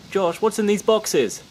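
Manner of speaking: put-on high, loud, slow child's question; a little kid dragging out the words; curious kid. A kid asks the magician about boxes, high, loud and slow. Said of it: "the kids were saying".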